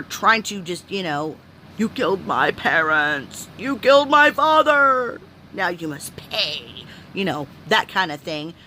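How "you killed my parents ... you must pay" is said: put-on vengeful bug child.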